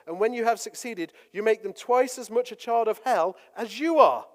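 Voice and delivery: loud, forceful preaching rebuke; aggressive rebuke. Retold or imitated. Preacher booming Jesus' woes at the Pharisees, angry. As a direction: thunder it at the Pharisees. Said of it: "he speaks aggressively and assertively".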